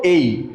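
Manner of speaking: "এই" said with a gliding ay; letter A as ay. Shown as a demonstration. Teacher leading the class in saying "এই". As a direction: model "এই" clearly for repetition. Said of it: "আমার সাথে বলুন".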